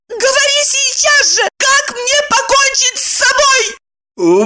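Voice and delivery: high, wild wail, drawn out slowly; wild scream. A narrator's reading. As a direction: howl the demand like a madwoman. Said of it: "диким голосом завопила".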